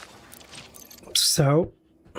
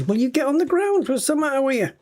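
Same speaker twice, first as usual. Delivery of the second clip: exasperated shout; 9 semitones higher, faster than usual. Real, not acted. Gamer yells at a dawdling pilot to land, exasperated. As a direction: bark at him to get down.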